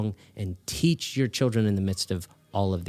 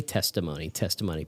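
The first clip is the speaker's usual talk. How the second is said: mock echo; 5 semitones lower, 7 dB quieter than usual. Mocking echo of quote-unquote testimony.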